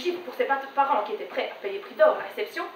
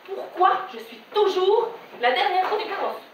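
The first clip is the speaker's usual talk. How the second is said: lightly voiced wounded mother, slow; aggrieved mother; 4 semitones higher, slower than usual. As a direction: drag out the reproach, slightly raised. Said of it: "Elle me dit". (mère vexée, plainte lente et un peu aiguë)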